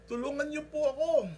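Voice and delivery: loud high plea; man pleading for rescue; begging. Retold or imitated. Desperate man begging God.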